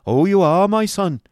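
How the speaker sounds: high, loud, gushing fatherly sentiment; sentimental. A narrator's reading. Schoolmaster answers his young son, sentimental. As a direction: swell with doting sentiment. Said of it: "replied Mister Squeers in a sentimental voice".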